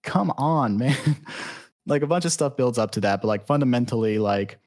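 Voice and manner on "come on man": high-pitched mock exasperation; exasperated dismay. Uncle dismayed that his nephew agreed, exasperated. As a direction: groan it in dismay, breaking into a laugh.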